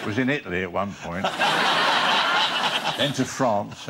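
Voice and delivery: words broken by his own laughter; can't hold back the laugh while retelling; laughing through the quote. Retold or imitated. Retelling Caine's joke, laughing.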